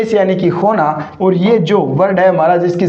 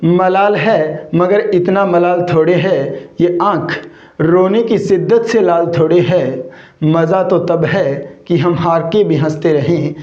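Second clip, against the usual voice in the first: slow recited couplet. Acted. Teacher recites Parveen Shakir's sher to his students, slow and measured. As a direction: recite the sher slowly, savouring each line. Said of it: "तो मैंने क्या कहा साथियों".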